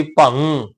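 ਭੰ with a held nasal ng; nasal syllable demo. Shown as a demonstration. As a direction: draw out ਭੰ through the nose. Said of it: "ਭੱਬੇ ਤੇ ਟਿੱਪੀ". (ਭੰ ਨੱਕ ਵਿੱਚੋਂ ਲਮਕਾ ਕੇ)

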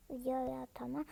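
whispered pleading request. Real, not acted. Whispering the request again to her viewers. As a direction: breathe it like a secret plea.

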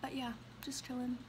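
talking while chewing; words around a bite of food; mouth full. Real, not acted.

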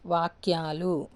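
slow వాక్యాలు with a held యా; long vowel. Shown as a demonstration. Teacher giving learners the plural వాక్యాలు, long vowel drawn out. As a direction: stretch the యా in వాక్యాలు. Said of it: "పక్కనున్న లెటర్కి దీర్ఘం వస్తుంది".

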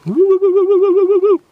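loud high joyful whoops; excited whooping. Real, not acted. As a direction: whoop with delight. Delighted cheering.

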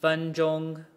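very slow, every syllable held apart; exaggerated slow drill. Shown as a demonstration. Teacher drilling back to front at natural pitch, very slow. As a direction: stretch each tone out deliberately. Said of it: "exaggeration and slow speech".

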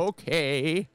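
high, drawn-out rapper catchphrase; hammed-up hype-man impression of a rapper. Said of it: "a rapper did the Deckard voice".

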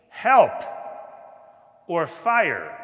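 mock cry for help. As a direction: call out like a man in danger. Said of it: "cry out with his whole being".

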